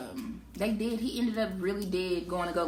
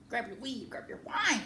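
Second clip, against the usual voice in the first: hyped call-out; 5 semitones higher than usual. Real, not acted. Hyped intro to the stream.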